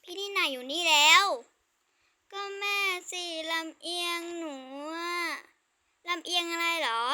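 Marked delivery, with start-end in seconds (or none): 2.4-5.2 crying. Acted. Little sister crying about mother.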